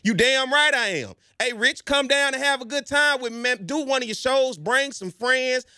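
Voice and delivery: proud coach reply. Retold or imitated. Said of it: "imagined reply as coach".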